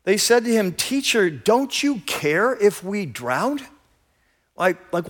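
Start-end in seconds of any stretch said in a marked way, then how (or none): 0.7-3.6 mildly irritated plea, raised at the start. Acted. Disciples waking their sleeping teacher in the storm, irritated. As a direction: put a touch of irritation into the question. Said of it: "they're just irritated".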